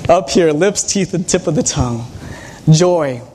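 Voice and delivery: smiling. Real, not acted. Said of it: "I'm trying to remind myself to smile".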